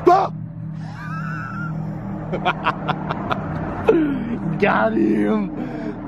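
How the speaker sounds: high shrieking laugh after prank; laughing shout. Real, not acted. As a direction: cackle at the scare. Scare prank on friend.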